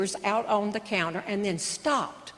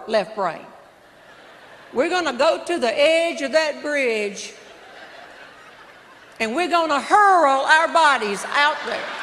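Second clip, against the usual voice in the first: raised voice; 3 semitones higher than usual. Retold or imitated. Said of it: "I brought my voice up".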